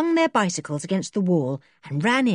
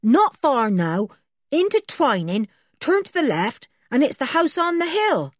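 called back; 8 semitones higher, 4 dB louder than usual. A narrator's reading. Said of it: "Somebody called back".

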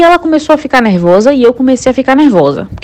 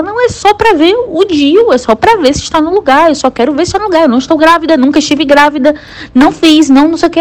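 higher pitched, exasperated insisting on the phone; irritated insistence; 6 semitones higher than usual. Retold or imitated. To the receptionist who won't understand, irritated high insisting. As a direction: push back, fed up and pleading. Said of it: "eu comecei a ficar irritada".

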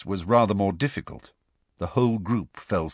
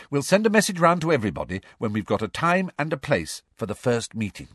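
higher, brisk-minded schoolgirl; organising Hermione; 5 semitones higher than usual. Acted. Schoolgirl telling the group the plan, higher voice. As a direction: announce the plan, pitched up then settling.

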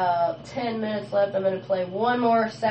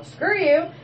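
higher, slow, drawn-out screw you; slow sassy dismissal; 10 semitones higher, 5 dB louder than usual. Real, not acted. DJ dedicating a song to her ex, sassy drawn-out kiss-off. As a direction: savor the kiss-off. Parting shot at ex.

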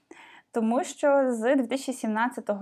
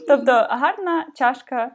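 laughing; 2 semitones higher, 5 dB louder, slower than usual. Real, not acted. Laughing while translating the title.

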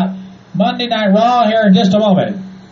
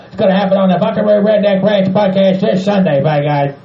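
angry redneck character. Acted. Bob Joe yelling at fans, ornery hick. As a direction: holler it like an ornery old man.

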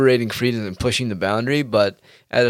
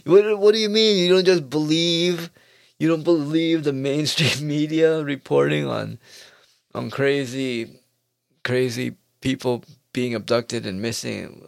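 mock incredulous believer; 4 semitones higher than usual. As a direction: play the shocked gullible believer.

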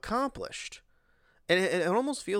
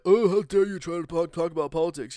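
higher and much louder, in a mocking put-on voice; mock indignation; 4 semitones higher, 7 dB louder than usual. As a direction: parody a prissy, offended person. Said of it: "be like".

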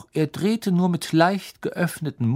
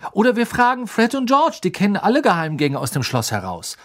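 put-on much higher, louder boyish voice; higher boy's voice, keen; eager Ron; 7 semitones higher, 4 dB louder than usual. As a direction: pitch the plan eagerly.

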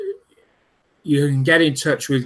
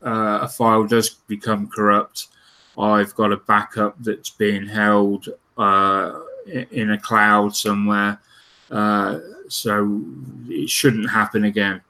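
dry-mouthed, slightly slurred words; 3 semitones lower than usual. Real, not acted. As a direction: talk through a parched dry mouth. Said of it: "Sorry, my mouth is dry. It sounds like I'm slurring".

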